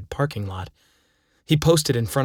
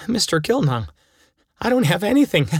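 high-pitched protest tipping into laughter; declared with laughter; 8 semitones higher, 3 dB louder than usual. A narrator's reading. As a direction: plead empty pockets, pitch climbing toward a laugh. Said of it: "I declared with an appalling laugh".

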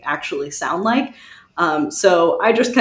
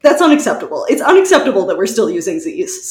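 mock outrage; 5 dB louder, faster than usual. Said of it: "mock outrage".

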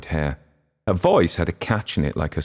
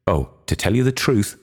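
a sharp, abrupt comeback, a touch raised; sudden retort; 5 semitones higher than usual. A narrator's reading. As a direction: blurt it out as a quick retort. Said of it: "retorted Gabriel suddenly".

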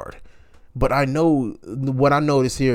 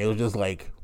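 whispered aside; 2 semitones lower, 5 dB quieter than usual. Real, not acted.

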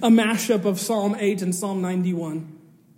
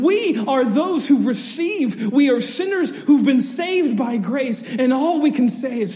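higher pitched preacher's voice; earnest preaching; 5 semitones higher, 5 dB louder than usual. Acted. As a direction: press the point earnestly. Sustained preaching.

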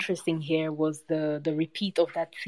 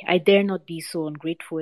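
mild exclamation; 4 dB louder than usual. Acted. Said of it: "exclaimed Hasibu".

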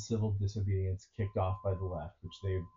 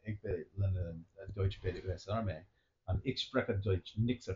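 put-on German accent; 3 dB quieter than usual. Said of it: "Where'd you learn German?".

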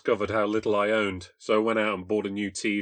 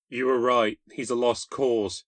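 slow, higher and louder, close to tears; a girl breaking down on the phone; mild tearful plea; 3 semitones higher, 4 dB louder, slower than usual. Acted. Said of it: "She broke into tears".

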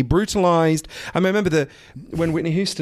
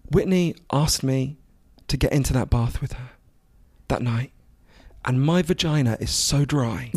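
almost crying; 4 semitones lower than usual. Retold or imitated. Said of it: "She's almost crying".

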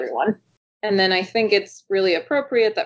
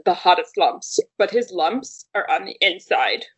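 Lumpy Space Princess voice. Retold or imitated. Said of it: "wait, let me try".

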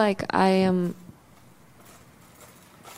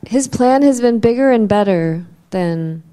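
fuller, louder voice from the chest; speak from the chest; 7 dB louder than usual. Real, not acted. Coached to speak from his chest, firmer. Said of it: "Speak from your chest".

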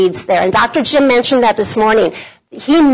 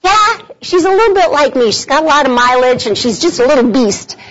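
put-on joking to her kids; 3 semitones higher, faster than usual. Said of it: "I told my kids, I said".

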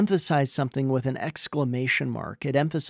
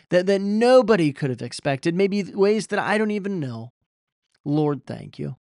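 higher, louder heartfelt thanks to God; model prayer; 3 semitones higher, 4 dB louder than usual. Pretend. Preacher voicing a prayer of thanks for the congregation, earnest and raised. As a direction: pray it out with earnest gratitude. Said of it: "turned your eyes towards God and said".

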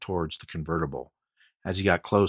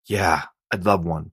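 shaky; 4 dB louder than usual. Acted. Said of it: "Chance said shakily".

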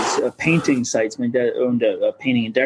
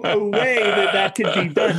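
hopeful wonder; 7 semitones higher than usual. Retold or imitated. Retold hopeful inner voice.

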